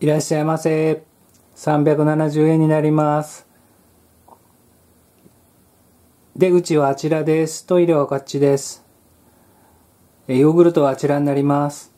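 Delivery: bored shop clerk reciting by rote; like a machine doing a chore; unmotivated clerk. Retold or imitated. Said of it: "まあ、機械のように喋ってるような".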